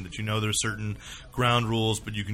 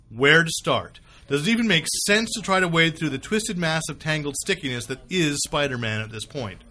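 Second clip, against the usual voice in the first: kvetching. Shown as a demonstration. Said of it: "kvetching voice".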